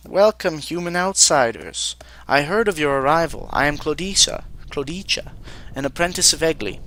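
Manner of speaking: lightly voiced eager young apprentice; eager apprentice mage. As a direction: greet the outsiders as a slightly formal apprentice mage.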